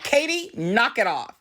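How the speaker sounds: high sharp name, then firm order; mock scolding. Mom telling Katie to stop, mock scolding.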